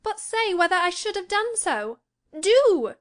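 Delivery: high, impatient demand rising to a loud burst; irritated exclamation. A narrator's reading. Cathy presses Nelly for her opinion, irritated. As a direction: plead irritably, very high, punching the last word. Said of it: "exclaimed in an irritated tone".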